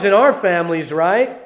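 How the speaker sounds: ordinary delivery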